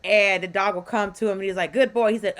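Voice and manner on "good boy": imitated dog praise. Imitated owner praising his dog.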